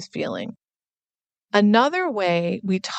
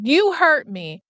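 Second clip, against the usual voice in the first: put-on higher, a small child's complaint; little girl voice; 8 semitones higher than usual. Toddler telling her dad he hurt her, higher childlike voice.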